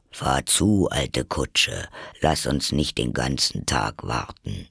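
low Gryphon voice, prodding; urging Gryphon. Acted. Gryphon tells the Mock Turtle to carry on, low and urging. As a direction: drop low to chivvy an old companion along.

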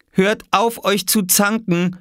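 high-pitched cross mother; scolding. Acted. Mama breaking up the breakfast quarrel, scolding. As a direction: tell off squabbling children. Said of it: "schimpfte Mama".

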